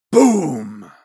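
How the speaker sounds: booming gunshot sound; loud boom. Acted. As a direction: blast it out like a gun. Blunderbuss fires at Thorn.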